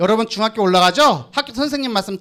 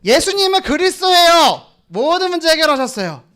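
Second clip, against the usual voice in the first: model answer; 6 semitones higher than usual. Pretend. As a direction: show the child how to answer mom. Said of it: "뭐라고 얘기해야 돼". (엄마에게 당당하게 대답하는 시범)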